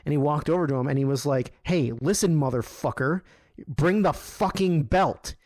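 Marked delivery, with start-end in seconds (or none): 1.6-5.3 rising, slowing into a higher, harder final demand; retold angry demand. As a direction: friend confronting the belt guy, mock furious demand. Scott confronts Tom about belt.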